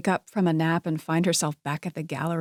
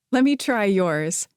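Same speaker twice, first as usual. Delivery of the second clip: laughing; 3 semitones higher than usual. Acted.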